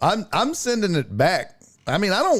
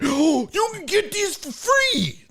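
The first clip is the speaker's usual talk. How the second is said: much higher, chirpy ad-like voice; high mock sales voice; 13 semitones higher than usual. Temu pitching the free deal, mocked in a high voice. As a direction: sing it like a too-good sales pitch. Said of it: "they were like".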